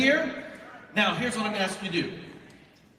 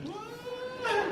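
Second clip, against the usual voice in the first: mock surprise. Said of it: "He's like".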